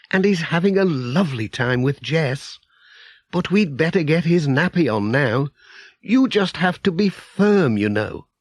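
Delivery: Mrs Pottage. Acted.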